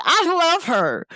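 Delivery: high-pitched adoring quote; gushing friend. Retold or imitated. Friend admiring the graduate on stage, high gush.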